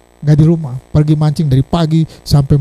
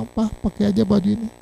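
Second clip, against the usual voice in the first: tearful wife; 4 semitones higher, 8 dB quieter than usual. Retold or imitated. Crying wife offers the shirt.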